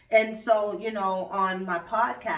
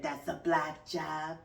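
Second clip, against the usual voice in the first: deadpan sarcasm; slower than usual. Retold or imitated. Host mocking the list of jobs, dry and slow. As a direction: say it flat and sarcastic, letting it sink. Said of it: "a podcaster".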